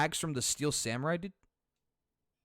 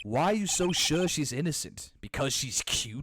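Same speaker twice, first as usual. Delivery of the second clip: sceptical prosecutor. Acted.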